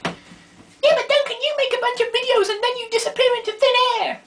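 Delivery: high, fast girly mock voice; imitating friend Gwyn. Gwyn teasing Duncan back, in a high fast mock voice. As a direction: play her teasing reply, high and quick. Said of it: "and she was like".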